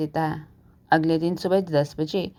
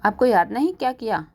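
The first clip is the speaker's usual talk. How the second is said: sharp, raised angry question; 4 semitones higher than usual. Acted. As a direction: demand it from him in mild anger. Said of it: "कविता गुस्से में कहती है".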